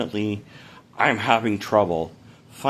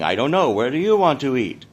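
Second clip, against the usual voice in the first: retold reply from the ad; 5 semitones higher, 4 dB louder than usual. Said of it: "multiple people saying".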